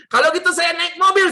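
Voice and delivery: high, loud husband's announcement; retold exasperated call. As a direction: call out fed up to the wife. Fed-up husband calls to his wife.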